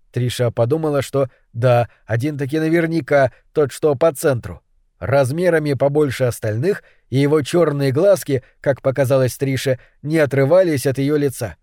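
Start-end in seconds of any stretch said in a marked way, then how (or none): none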